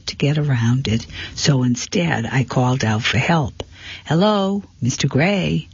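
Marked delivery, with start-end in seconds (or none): 4.0-5.7 calling out. A narrator's reading. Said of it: "I cried".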